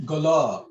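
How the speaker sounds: gala with a long final "la"; voyelle longue. Shown as a demonstration. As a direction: hold the "la" at the end of gala. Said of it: "it has a long sound".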